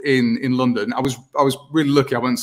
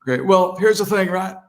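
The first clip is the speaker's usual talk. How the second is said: folksy former-president impression, pitched up; Bill Clinton; 4 semitones higher than usual. Impressionist introducing his act to the host, Bill Clinton voice. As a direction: do a sly presidential charmer. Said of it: "this is Bill Clinton".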